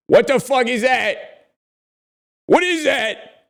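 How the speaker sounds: high, loud, drawn-out shock; shocked disbelief. Real, not acted. Looking at the wasp photo with chat, high loud shock.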